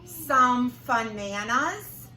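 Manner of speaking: very slow, stretched monster request; slow drawled request. Acted. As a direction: stretch every word out. Hungry thing drawls request.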